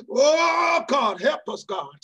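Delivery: a cry breaking through the prayer. Real, not acted. Preacher overcome, crying out to God. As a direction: let the tears catch on help.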